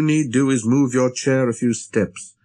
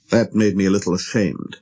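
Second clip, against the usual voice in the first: ordinary delivery, nothing marked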